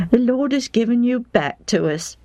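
wife overjoyed her husband is home; wife's voice. A narrator's reading. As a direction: greet him like a relieved wife. Wife speaks.

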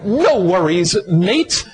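lightly imitated Australian "No worries, mate"; Australian lilt, rising on "mate"; Australian accent. Preacher quoting his Australian friends, light Australian accent. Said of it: "our Australian friends have an interesting phrase".

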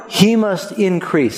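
slow, deliberate "He must increase."; slow recited verse. Shown as a demonstration. Pastor prompting the congregation to recall the verse, slowly. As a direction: draw the line out for them to recall. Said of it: "Do you remember the verse".

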